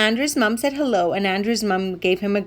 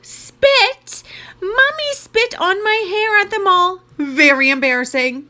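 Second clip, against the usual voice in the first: put-on high-pitched, horrified boy's outburst; shrill-pitched protest, settling by the end; outraged yell; 10 semitones higher than usual. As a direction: cry out in mortified disbelief, starting high and easing down. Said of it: "yelled Andrew".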